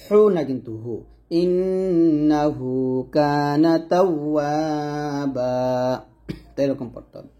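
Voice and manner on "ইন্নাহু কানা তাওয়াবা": slow chanted ইন্নাহু with a light হু; Quran recitation. Shown as a demonstration. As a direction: recite it melodic and drawn out.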